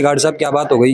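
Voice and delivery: ordinary talk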